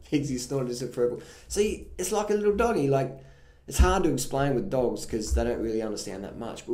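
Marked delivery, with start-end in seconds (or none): 1.5-2.9 cooing. Real, not acted. Cooing over the dog.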